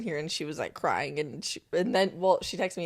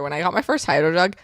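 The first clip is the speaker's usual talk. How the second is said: excited; 2 semitones lower, 5 dB louder than usual. Real, not acted. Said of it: "Oh, you were really excited".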